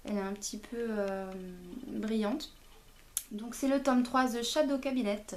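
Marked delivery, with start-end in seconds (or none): 4.3-5.3 English title in a French speaker's accent; self-mocked English accent. Real, not acted. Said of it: "Vous noterez mon super accent anglais".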